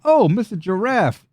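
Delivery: swooping high goblin voice; goblin brute. Acted. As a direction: play a goblin brute greeting his victim, pitched well up. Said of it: "a Goblino brute kinda steps through".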